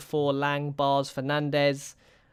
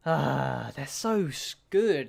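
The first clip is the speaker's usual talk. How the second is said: exasperated; much slower than usual. Real, not acted. Manager conceding the rivals are better, exasperated cry. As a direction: throw up your hands at how good they are.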